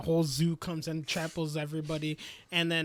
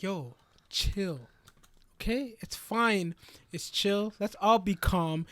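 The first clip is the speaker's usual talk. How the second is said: slow, measured reassurance, pitched up; mock forced calm; 3 semitones higher, slower than usual. Lloyd trying to keep everyone calm, slow strained reassurance. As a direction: talk everyone down with put-on patience. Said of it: "As he friggin' loses his mind".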